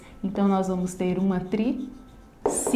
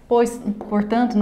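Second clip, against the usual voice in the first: ordinary talk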